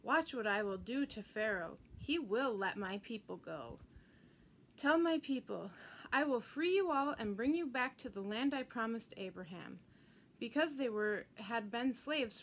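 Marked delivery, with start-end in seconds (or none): 0.0-3.8 thundering voice. Acted. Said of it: "in a thundering voice". 4.8-9.8 God promising freedom to his people; booming promise. Acted. God's promise, building loud.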